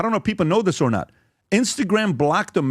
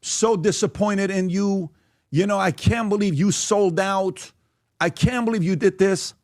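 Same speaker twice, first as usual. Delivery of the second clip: higher-pitched, drawn-out mock reproach; mock disappointment; 5 semitones higher than usual. Speaker imitating Israelis scolding him for selling out, mock disappointment. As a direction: imitate a let-down supporter, slow and high. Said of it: "Israelis are gonna say".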